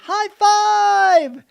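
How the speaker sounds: beaming, shouted greeting to a depressed greeter; excited high five. Retold or imitated. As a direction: call it out big to snap her out of her funk. Greeting startled old lady.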